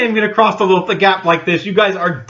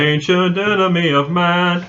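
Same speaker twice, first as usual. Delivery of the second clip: slow dramatic movie line; dramatic quote; slower than usual. Shown as a demonstration. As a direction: intone it like a trailer. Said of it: "if you know what that's from".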